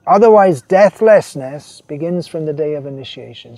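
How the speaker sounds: emphatic preacher reading the guru's words; sermon quote reading. Acted. Preacher reading a quote to the congregation, emphatic. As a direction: read the master's words with weight.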